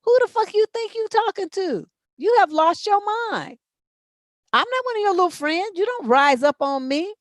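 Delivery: high, loud mock scolding; mom scolding. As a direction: put the kid back in her place, loud. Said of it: "I'm like".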